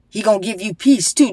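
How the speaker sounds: praying in tongues over a listener; fervent prayer. Real, not acted. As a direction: call on God for her escape.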